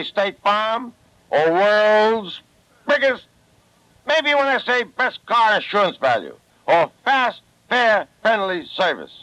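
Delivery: Brooklyn accent. Shown as a demonstration. Phil Foster showing off his Brooklyn accent. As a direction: lean into the Brooklyn words. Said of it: "Does that sound like a bad Brooklyn accent".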